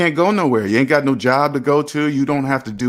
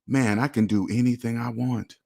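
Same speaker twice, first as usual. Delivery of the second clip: softer, lower self-talk; saying to oneself; 3 semitones lower, 6 dB quieter than usual. Acted. Viewer trapped at home talking to himself, quiet self-talk. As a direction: say it softly, as a private thought. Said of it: "really say to yourself right now".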